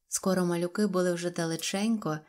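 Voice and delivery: ordinary delivery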